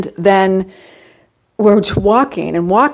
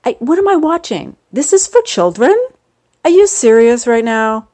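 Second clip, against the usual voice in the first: disbelief; 5 semitones higher, 3 dB louder than usual. Real, not acted. Incredulous at children's movie.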